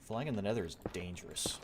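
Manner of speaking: hushed whispered aside. Real, not acted. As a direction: whisper it to yourself. Unvoiced aside.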